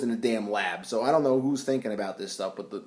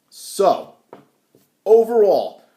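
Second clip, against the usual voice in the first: 1 loud emphatic restart; 7 semitones higher, 9 dB louder, much slower than usual. Real, not acted.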